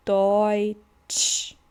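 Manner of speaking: Deutsch said doitch, eu as oi; oi sound. Shown as a demonstration. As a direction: stress the oi in Deutsch. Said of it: "E com U vai formar".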